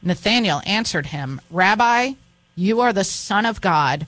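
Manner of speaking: expressive Bible reading, lifting the quoted speeches; scripture reading. Acted. Host reading the calling of Nathanael, expressive scripture reading. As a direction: read the Gospel aloud, voicing its dialogue lightly.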